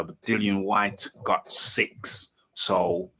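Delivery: ordinary delivery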